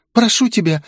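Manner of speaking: high, desperate pleading; begging. Acted. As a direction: beg for mercy, voice up high. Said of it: "молила она". (высокая отчаянная мольба)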